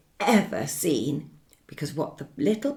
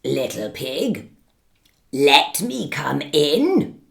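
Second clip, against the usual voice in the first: polite wolf; 3 semitones lower, 4 dB louder than usual. Acted. Wolf asks to come in.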